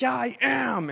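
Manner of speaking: high-pitched mock protest of a three-year-old; upset little boy. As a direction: imitate a small boy insisting, voice shooting up. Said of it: "he gets really upset".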